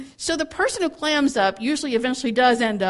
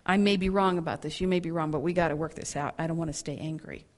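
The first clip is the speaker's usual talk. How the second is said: controlled calm voice; 4 semitones lower, 4 dB quieter than usual. Shown as a demonstration. A speaker showing how to voice anger in love, calm controlled voice. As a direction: calmly invite them to work it out. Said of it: "in a very controlled voice".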